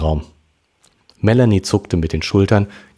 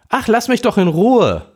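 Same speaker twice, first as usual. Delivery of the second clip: mit den Tränen kämpfend. Acted. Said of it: "kämpfte Melanie mit den Tränen".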